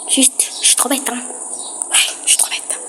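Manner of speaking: put-on soft whispery baby voice; cutesy baby talk. Shown as a demonstration. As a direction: coo it like a little baby. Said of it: "cette fichue voix de bébé".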